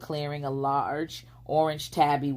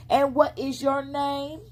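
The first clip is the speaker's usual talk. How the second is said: high, sly fox asking; fox character voice; 11 semitones higher, 3 dB louder than usual. A narrator's reading. Fox asking the little girl her name, sly. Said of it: "the critter replied".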